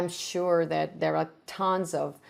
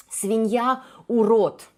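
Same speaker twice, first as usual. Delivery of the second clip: Свинья, урод spat out louder and higher; insulting bark; 4 semitones higher, 7 dB louder, slower than usual. Shown as a demonstration. Teacher acting the insult, loud and scornful. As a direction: sneer Свинья, урод loudly.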